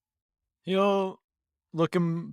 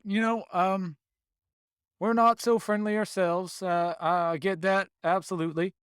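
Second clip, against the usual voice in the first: Southern druid voice; 3 semitones higher than usual. Acted. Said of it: "So he switches back to normal".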